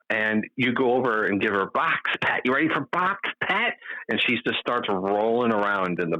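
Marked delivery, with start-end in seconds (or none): 2.4-3.8 high sing-out to a pet; coaxing pet-owner voice, pitched way up; pet talk. Retold or imitated. Owner offers cat a pat in the box, high pet talk.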